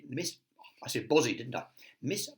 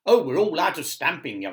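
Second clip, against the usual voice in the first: chuckling; 6 semitones higher, 10 dB louder than usual. Acted. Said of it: "chuckled Right".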